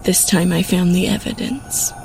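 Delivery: high-voiced accusing wife; angry, gritted teeth. A narrator's reading. Wife confronts her husband with evidence, angry. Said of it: "glaring at me with angry eyes and gritted teeth".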